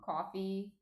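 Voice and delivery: coffee with a New Jersey vowel; Jersey accent. Shown as a demonstration. Running through Jersey words on demand, Jersey accent. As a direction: give the word its Jersey sound. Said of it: "Jersey words like".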